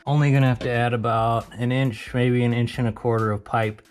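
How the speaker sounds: out of breath, panting between phrases; winded from climbing under the truck; heavy breathing. Real, not acted. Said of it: "sorry for the heavy breathing".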